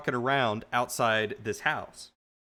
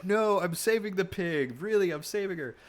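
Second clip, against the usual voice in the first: pleading protest; 8 semitones higher than usual. Retold or imitated. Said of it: "I'm trying to say".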